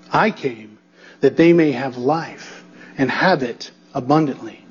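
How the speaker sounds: scripture reading. Acted. Preacher reads the passage to the congregation, measured and earnest. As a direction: read the verses aloud to the congregation.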